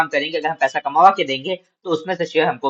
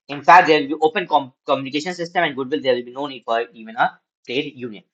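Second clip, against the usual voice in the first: slow, measured reading aloud to students; slow classroom read-aloud; slow textbook reading; much slower than usual. Acted. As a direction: read each phrase out deliberately for the class.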